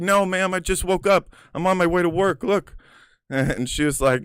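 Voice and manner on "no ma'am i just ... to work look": high, eager and innocent; innocent pleading. Retold or imitated. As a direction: play it sweet and harmless.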